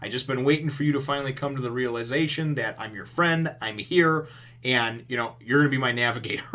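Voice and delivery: upbeat, animated retelling of his vow; excited pledge. Retold or imitated. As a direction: imitate a pumped-up friend promising to help. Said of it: "he's excited, right? He's ready to go".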